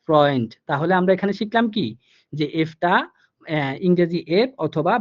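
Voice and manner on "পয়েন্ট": পয়েন্ট ending in a light t sound; final light t. Shown as a demonstration. Teacher to students, modelling the ending of পয়েন্ট. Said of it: "এটার উচ্চারণ হয়েছে".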